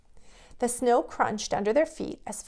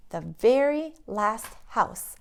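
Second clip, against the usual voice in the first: twinkly. Acted. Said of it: "with a twinkle in his eye".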